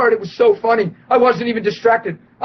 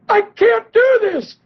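excited shout; slower than usual. Retold or imitated. Healed man answering the preacher, a high excited shout. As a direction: blurt it out in wonder.

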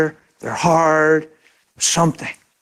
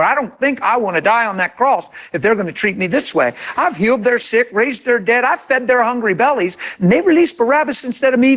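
aggrieved rant to the Father, pitch swinging up; mock yelled complaint; 3 semitones higher than usual. Preacher parodies Jesus yelling to the Father, mock aggrieved complaint. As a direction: complain indignantly, stretching into high peaks without real shouting. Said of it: "Jesus yelled to the Father".

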